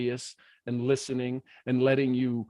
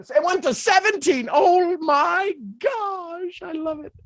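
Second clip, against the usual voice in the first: higher, drawn-out delight; 13 semitones higher, 4 dB louder, slower than usual. Real, not acted. Coach delighted the count hit seventeen. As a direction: savor the surprise slowly.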